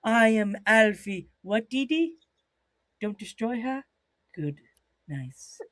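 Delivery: slow, deliberate British wrestler impression; Alfie. Imitating wrestler's self-introduction, slow British character. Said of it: "you have to be like".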